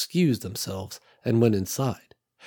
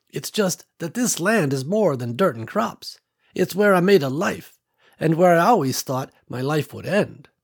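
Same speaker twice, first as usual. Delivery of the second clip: lightly voiced older country woman, a bit higher; old farm woman Ruby; 6 semitones higher than usual. Ruby telling Nicole about her land, lightly voiced old woman. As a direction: let a hint of an old rancher widow in.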